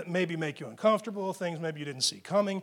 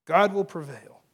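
louder, firm and brisker delivery; forceful declaration; 7 dB louder than usual. Real, not acted. Preacher driving the truth home to believers, loud and firm. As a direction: drive it home firmly.

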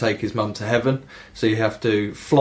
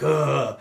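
mock disgusted groan; 4 semitones higher than usual. Captain sprayed in the face.

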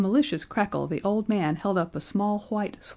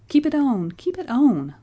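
loud, high, urgent plea; flustered, raised-voice insistence; hurried; 7 semitones higher, 6 dB louder than usual. A narrator's reading. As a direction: urge it in a hurry. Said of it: "said Mister Button hurriedly".

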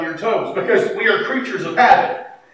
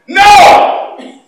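a much higher, louder flat refusal; retold shouted no; 12 semitones higher, 12 dB louder than usual. Wife arguing theology with her husband, a loud shouted no. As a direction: bark the no like an argument.

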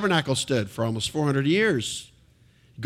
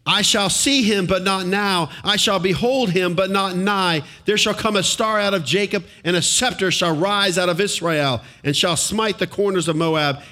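raised, measured reading of the verse; scripture reading; 3 semitones higher than usual. Acted. Preacher reading Genesis aloud to congregation, proclaiming.

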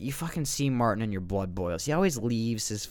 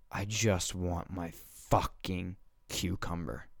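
slow, weary, measured exasperation; exasperated plea; 2 semitones lower, 4 dB quieter, slower than usual. Acted. Shopper begs neighbor to let him shop, slow and fed up. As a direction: drag it out, holding back irritation.

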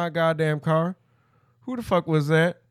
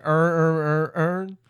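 put-on Baltimore accent; slower than usual. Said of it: "when you're from Baltimore and you try to announce".

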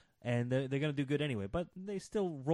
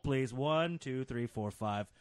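normal talking voice

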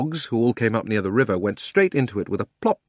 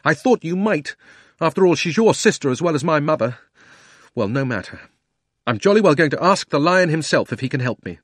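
put-on defiant boy; 5 semitones higher, 5 dB louder than usual. A narrator's reading. Diggory defiant.

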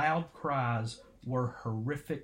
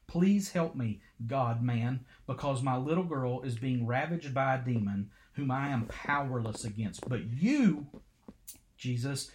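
put-on a mother begging Jesus to save her little girl, pleading; desperate mother's plea. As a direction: beg him like your child's life depends on it.

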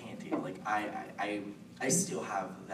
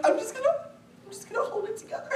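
very high, loud squeak with laughter; barely holding together; 7 dB louder than usual. Retold or imitated. Starstruck fan beside her idol, barely holding together. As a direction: squeal it as if about to burst.

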